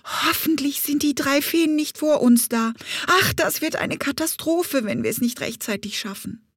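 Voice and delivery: high, fretful bee whining about the fairies. Acted. Bumblebee fretting about the three fairies, whiny. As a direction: moan with worry. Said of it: "Sie jammerte".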